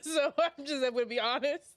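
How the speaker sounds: laughing through the words; talking while cracking up. Real, not acted.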